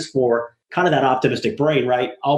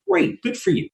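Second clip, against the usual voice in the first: mock enthusiasm. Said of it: "I'm like".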